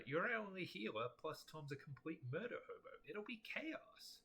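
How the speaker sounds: high, emphatic acted pleading; exasperated gamer begging a teammate; dismayed protest. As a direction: start loud and high, stretch out the last warning. Acted protest repeated from chat.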